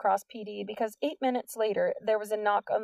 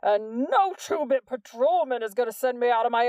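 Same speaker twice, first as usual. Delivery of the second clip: loud, raised furious voice; angry shout; 3 semitones higher, 5 dB louder than usual. A narrator's reading. Principal refuses to leave office, shouting angrily. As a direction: keep yelling him down.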